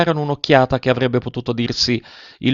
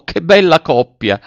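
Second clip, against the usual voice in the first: higher, louder delighted cry; exclaiming; 7 semitones higher, 5 dB louder than usual. A narrator's reading. Countess Armandi admiring the couple, bright exclamation. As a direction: gush over the couple. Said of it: "esclamò".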